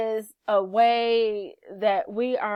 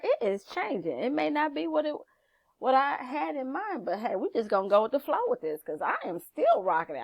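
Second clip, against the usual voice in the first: sassy, upbeat pep talk to the mirror, a touch higher; confident self-talk; 4 semitones higher than usual. Pretend. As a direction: hype yourself up, playful and proud. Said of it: "you should be saying".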